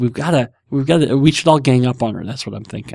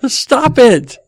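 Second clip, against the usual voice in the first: high, laughing pleas to stop; 10 semitones higher, much slower than usual. Real, not acted. Host pleading with his giggling wife, high laughing stop. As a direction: beg her to stop through laughter.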